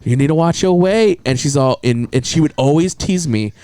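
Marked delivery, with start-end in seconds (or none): 0.0-1.2 Chinese lady doctor. Retold or imitated. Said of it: "was a Chinese lady".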